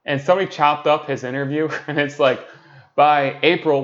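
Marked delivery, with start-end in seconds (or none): 3.0-3.8 staccato. Retold or imitated. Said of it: "one word at a time".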